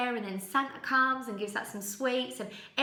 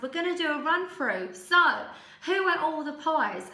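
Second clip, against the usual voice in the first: louder, higher panto call, drawn out on the pies; panto host; 5 semitones higher, 4 dB louder than usual. Retold or imitated. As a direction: lead the audience rehearsal like a stage comic.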